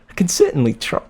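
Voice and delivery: put-on playful German accent. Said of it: "In a German accent".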